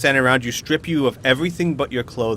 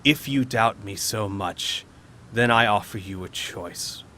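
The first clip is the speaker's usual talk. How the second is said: slightly lowered, slow villainous offer; measured, deliberate beholder speech; lightly voiced monster laying down terms; imperious beholder; 3 semitones lower, 5 dB quieter than usual. Beholder makes an offer to challengers.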